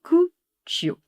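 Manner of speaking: Italian "cuccio" high; Italian pronunciation. Shown as a demonstration. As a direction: sing out "cuccio" Italian style. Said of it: "Donc, on dit cuccio".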